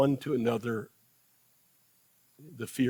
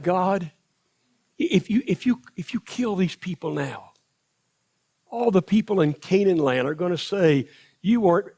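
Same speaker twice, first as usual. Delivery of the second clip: lightly voiced pleading, higher; pleading Moses; 4 semitones higher, 3 dB louder than usual. Moses pleads with God for the people, higher and earnest. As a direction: Moses begs God to spare them, mild urgency.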